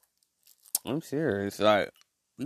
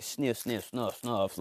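mock sniffing; 8 dB quieter, slower than usual. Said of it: "They like".

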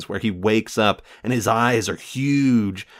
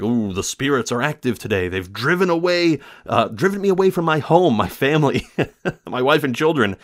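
lightly voiced old man, raised pitch; a hint of a spooky old man; 4 semitones higher than usual. Recapping the film, voicing the old man mildly. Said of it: "the older man says".

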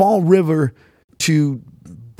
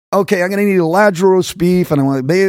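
too-quick order; 4 semitones higher than usual. Retold or imitated. Northerner ordering a sandwich down South, hurried delivery. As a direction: rattle off the order, acted. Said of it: "slow down".

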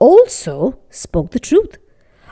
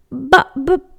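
flustered whisper; 3 semitones higher than usual. Acted. Poor man flustered.

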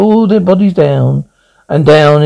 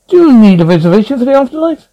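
disdainful; 7 semitones higher, much faster than usual. A narrator's reading. Green blur disdainful.

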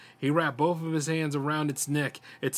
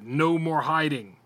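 defiant; 5 dB louder, slower than usual. A narrator's reading. Brian confronts the monster.

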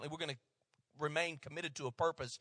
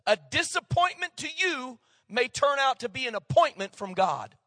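raised, emphatic saying in one running flow; said too fast; 6 semitones higher, 6 dB louder than usual. Real, not acted. Preacher gives the congregation a saying to write down, too fast. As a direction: deliver it loud and high without stopping. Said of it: "I said it too fast".

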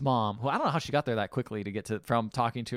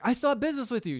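mock high movie voice; 11 semitones higher, faster than usual. Retelling movie scene, quoting character.

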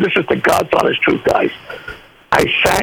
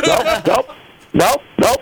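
high, laughing no's, caught out; laughing denial; 10 semitones higher than usual. Retold or imitated. Husband denying to his wife it's his song, laughing. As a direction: giggle through the denials.

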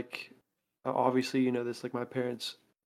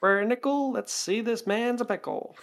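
chirpy trade show pitch; 9 semitones higher than usual. Pretend. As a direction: sell it for a nickel. Barker bit continued.

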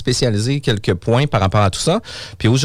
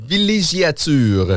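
slow, over-careful, pen in teeth; 4 semitones higher, much slower than usual. Shown as a demonstration. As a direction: articulate slowly around a pen. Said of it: "avec le crayon entre les dents".

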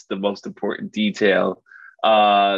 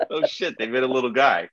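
laughing disbelief. Retold or imitated. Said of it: "I was just like".

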